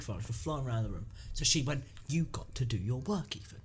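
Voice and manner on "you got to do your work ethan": imitating a Canadian teacher; lightly done Canadian accent. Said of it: "in a Canadian accent".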